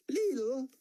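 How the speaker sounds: high, slow, halting foreign barman voice; a big barman feeling for each English word; slow and high, barely speaks English. A narrator's reading. Barman answers in broken English.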